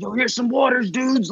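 high-pitched, easygoing imitation of a dad; friendly dad offer. Local dad brings riders water, friendly imitated offer.

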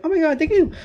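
very high squealing mock thanks. Thanking the staff in a high squeal. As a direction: squeal it out with delight. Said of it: "I'm like".

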